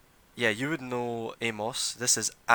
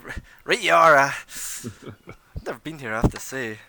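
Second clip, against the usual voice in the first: lightly higher, louder boastful lord; pompous noble; 3 semitones higher, 5 dB louder than usual. Acted. Anders boasts to the adventurers, a lightly raised pompous voice. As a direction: brag about being first on the scene. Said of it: "Andrew's like".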